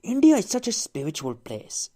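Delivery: mock film-style Indian accent. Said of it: "an Indian voice like this".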